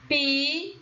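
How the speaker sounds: "Picolé" split into three held syllables. Shown as a demonstration. Teacher telling pupils to observe, "Picolé" syllable by syllable. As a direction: sound out "Picolé" as pi, co, lé with gaps.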